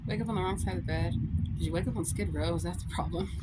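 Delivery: lightly put-on mock concern; changed trolling voice. Shown as a demonstration. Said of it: "Just change your voice".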